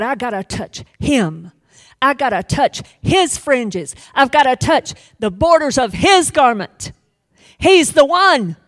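pleading woman building to a high, loud cry; urgent, rising plea; desperate woman. Acted. Woman pressing through the crowd, desperate and rising loud. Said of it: "She said".

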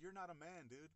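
mildly angry, re-enacted put-down; pissed retort. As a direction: throw it back at him, indignant. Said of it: "I was pissed".

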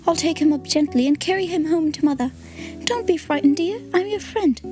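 put-on girl comforting a hurt robin, gently; Tilly's gentle child voice. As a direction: soothe a frightened bird like a kind child. Tilly soothes the bird.

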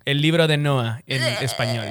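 put-on Spain Spanish accent. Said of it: "Español de España, tío".

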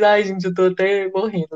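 dying of nervous laughter; giggly, breathless with nerves. Real, not acted. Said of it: "risada de nervoso". (rindo de nervoso)

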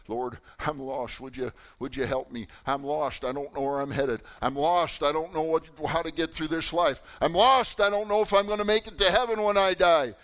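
starts subdued, builds to a high, loud plea; crying out, building. Retold or imitated. Lost listener cries out to the Lord, building to a shout. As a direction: plead harder with each line until you are shouting. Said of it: "You're out there screaming out".

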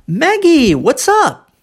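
high swooping "Maggie", "what's up" with T-S sounded; repeat-after-me model. Shown as a demonstration. Teacher speaking for the student to repeat, high lilting intonation. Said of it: "eu vou falar e aí do outro lado".

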